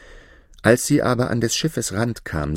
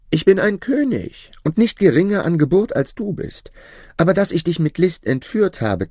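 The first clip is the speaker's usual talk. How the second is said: king's ardent voice; 8 semitones higher than usual. Acted. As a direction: pour out his love, raised and eager. King declares himself to princess.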